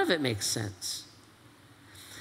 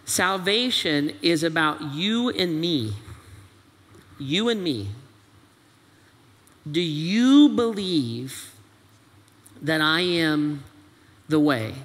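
tender Jesus; slower than usual. Acted. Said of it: "Jesus would look at you and say this".

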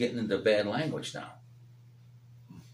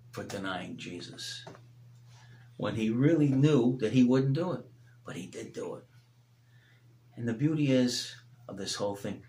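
tender preaching; 2 semitones lower than usual. Acted. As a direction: gently draw them to grace.

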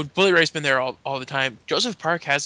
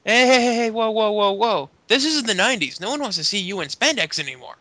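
Joey Ryan voice; 6 semitones higher, 3 dB louder than usual. Retold or imitated. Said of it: "Joey Ryan's like".

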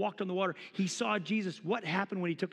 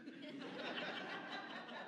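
very quiet high laughter; 10 semitones higher, 15 dB quieter than usual. Real, not acted. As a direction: laugh softly after the joke. Laughs after his own parody.

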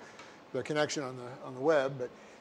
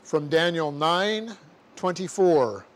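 dictating. Shown as a demonstration. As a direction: dictate it word by word, punctuation aloud.

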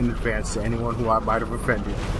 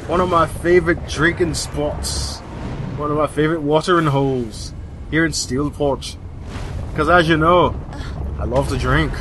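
put-on Irish accent. Gamer trying out his Irish accent on a fella. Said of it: "Irish accent I've been working on".

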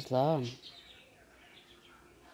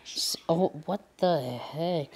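raging gamer. Real, not acted. Gamer killed by sniper.

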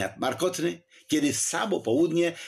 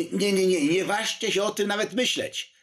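alarmed protest; 9 semitones higher than usual. A narrator's reading. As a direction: stop them before they even think it. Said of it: "zawołał Poniatowski".

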